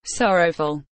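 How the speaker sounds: Sorrowful said low and mournful; somber reading. Shown as a demonstration. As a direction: let Sorrowful sink, low and weighted. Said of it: "word read alone, then with example".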